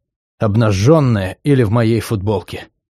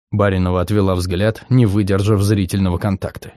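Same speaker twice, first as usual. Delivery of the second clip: ordinary delivery, nothing marked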